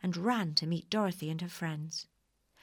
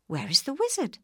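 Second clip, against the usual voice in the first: calling out; 8 semitones higher, 5 dB louder than usual. A narrator's reading. Dorothy calls into empty hall.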